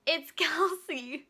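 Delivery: slow, laughing, drawn out; laughing defiance. Retold or imitated. Cashier gives name to angry customer, slow and laughing. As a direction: say it through a cheeky laugh.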